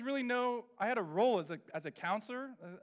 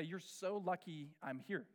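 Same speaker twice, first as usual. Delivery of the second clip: slow, softer grumble; muttered reproach; 6 dB quieter, slower than usual. Retold or imitated. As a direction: hold back the resentment. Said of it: "so many times I wanted to say".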